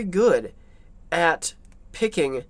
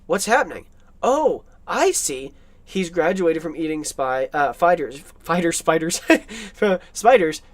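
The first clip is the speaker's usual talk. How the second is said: voicing Renfield; 4 dB louder than usual. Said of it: "And then".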